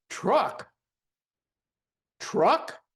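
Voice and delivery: high, loud yelling of a confused question; mock yell. Client shouting back at the dozing hypnotist, high and loud. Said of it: "I hear this guy yelling".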